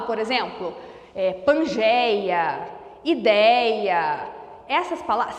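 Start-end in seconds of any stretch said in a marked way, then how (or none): 1.3-2.7 "pangeia" slow and lower, lingering on éi; drawn-out example word. Shown as a demonstration. Teacher giving an example ending in eia, slowly drawn out. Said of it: "Sabe quando eu falo". 3.0-4.3 "ideia" lower, lingering on open éi; drawn-out example word. Shown as a demonstration. Teacher giving an example ending in eia, drawn out. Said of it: "Sabe quando eu falo".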